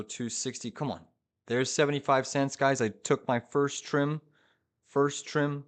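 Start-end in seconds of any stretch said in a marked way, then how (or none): 1.5-5.6 excited. Real, not acted. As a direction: cheer the target being hit. Hits profit target live.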